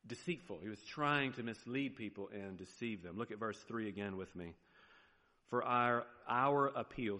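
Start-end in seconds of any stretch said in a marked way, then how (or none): 5.5-7.2 a slip into a light Southern accent on appeal; Southern twang creeping into our appeal. Real, not acted. Preacher reading scripture, slips into a Southern accent. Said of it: "sorry, there's my southern accent".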